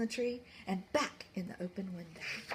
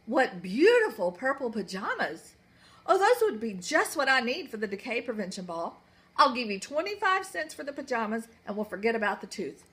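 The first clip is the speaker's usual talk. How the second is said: gushing queen; 6 dB louder than usual. Acted. Queen covets pajamas.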